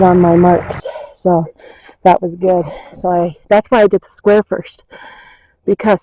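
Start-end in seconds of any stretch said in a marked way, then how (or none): 2.9-6.0 breathless, winded talking; puffing between words; out of breath. Real, not acted. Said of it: "I'm out of breath".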